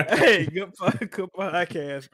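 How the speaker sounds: laughing while talking. Real, not acted. Laughing through his outro.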